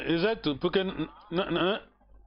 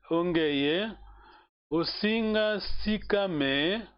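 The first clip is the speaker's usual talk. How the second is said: slow model reading; much slower than usual. Shown as a demonstration. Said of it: "Olha a pergunta".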